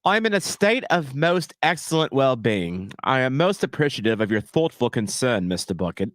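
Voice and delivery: put-on mannered English accent, formal phrasing; British accent. Streamer answering Bucket's question in a put-on British accent. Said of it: "with that accent".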